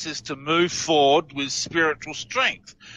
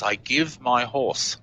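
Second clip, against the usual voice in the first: backwards speech; 3 semitones lower, slower than usual. Retold or imitated. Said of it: "he says in reverse".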